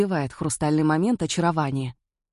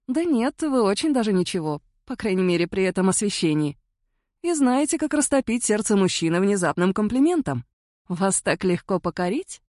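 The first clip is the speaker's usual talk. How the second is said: a hint of a higher woman's voice, playful; lightly voiced Jane; 4 semitones higher than usual. Flirty woman teasing a stranger at the bar, lightly voiced. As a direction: tease him lightly, a touch higher.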